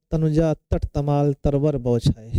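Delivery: तनुजा तट तमाल तरवर said slowly, each त sound stressed; poem line read slowly to show alliteration; slow alliterative recital. Shown as a demonstration. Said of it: "तो आप देखेंगे ता, ता, ता".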